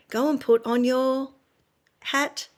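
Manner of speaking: slowed down, rising on hat; lilting cue to a toddler. Retold or imitated. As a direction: mum drawing out a gentle instruction. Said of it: "She's slowing it down and using different intonation to Dad".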